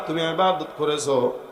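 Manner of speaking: low, softened questioning; low-voiced sermon dialogue. Allah questions the pious man, low-voiced sermon dialogue. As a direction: act out a quiet interrogation within the sermon.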